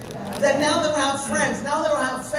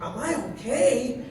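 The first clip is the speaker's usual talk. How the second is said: much higher and louder, laughing in delight; thrilled laughing outburst; 9 semitones higher, 8 dB louder than usual. Retold or imitated. Recalling being singled out by the founder, laughing and overjoyed. His own thrilled reaction retold.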